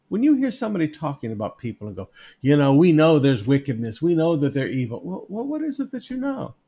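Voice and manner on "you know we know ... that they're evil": a hint of loud, self-righteous certainty; lightly lampoon smug accusers; mock self-righteous. Preacher lampooning people who accuse without proof, self-righteous.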